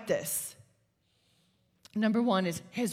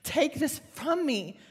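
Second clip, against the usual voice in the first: slow retold plea, rising on the repeat; plead, leaning hard on each word; crying out; 3 semitones higher, slower than usual. Woman praying by the pool at night, crying out. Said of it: "I am crying out to God".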